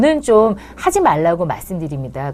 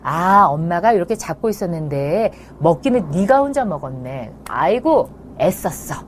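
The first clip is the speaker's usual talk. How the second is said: encouraging mom. Shown as a demonstration. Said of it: "엄마가 격려하시는 겁니다".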